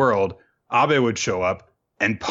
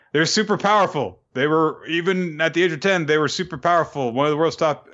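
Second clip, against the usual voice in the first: higher-pitched, gushing retold praise; imitated awe; 6 semitones higher than usual. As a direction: gush like an overawed admirer. Character gushes about powerful hunter.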